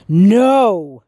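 angry shout. Acted. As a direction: bark it back like a furious monster. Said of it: "shouted Marvin".

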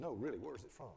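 retold incredulous question, pitch swooping; insistent disbelief. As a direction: press the question, as a doubting instructor. Retold instructor doubting his answer.

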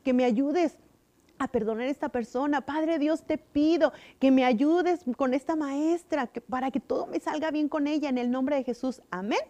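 a simple bedtime-style prayer; child's prayer. Shown as a demonstration. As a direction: pray it gently for the children. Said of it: "Debemos de orar".

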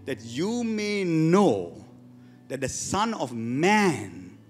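very slow, each word stretched out; slow emphatic reading. Shown as a demonstration. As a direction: drag the verse out word by word.

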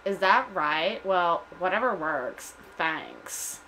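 put-on dismissive Valley Girl. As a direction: brush them off as a Valley Girl. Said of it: "like Valley Girl".

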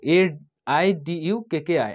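slow letter-by-letter reading; careful, spaced-out letters; spelling it out. Shown as a demonstration. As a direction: spell an unfamiliar name slowly. Spells out an unfamiliar place name.

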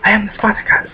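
high hammed-up battle cry; mock heroic cry. Gamer hamming up a Spartacus cry, high and mock-heroic. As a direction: play the defiant gladiator badly. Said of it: "I have bad accents".

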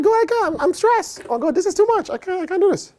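high, slowed pleading cry of overwhelm; mock desperate prayer. An honest believer tells God it's too much, mock desperate. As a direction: beg God like you're at the end of your rope. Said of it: "You can be like".

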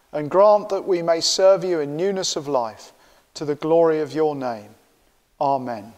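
steady, measured confession prayer. Acted. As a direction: recite the confession solemnly as one. Congregation's confession prayer said together.

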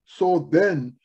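measured, emphatic proclamation in phrases; scripture reading. Acted. Preacher reading the letter to Laodicea, solemnly declaimed. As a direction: read it out firmly, pausing between phrases.

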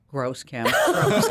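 mock disgusted cry, jumping way up on the second gross; a playful imitation of a friend's disgust. Retelling John's reaction to the dirty earbuds, mock disgust. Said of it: "He goes".

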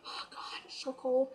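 hushed, breathy cold-weather moan; acted shivering complaint. Fan reliving a freezing wait in the rain, hushed complaint. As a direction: mutter it under your breath, freezing.

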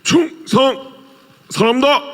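high, crisp army salute; korean military style. Acted. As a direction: shout it like a sergeant. Actor salutes in soldier character.

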